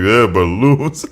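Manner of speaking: put-on slow, dopey baby voice saying balloons; dumb baby talk. Mocking his friend's idea of baby talk, slow dopey voice. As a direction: drawl it like a dim toddler. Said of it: "you think baby talk is like".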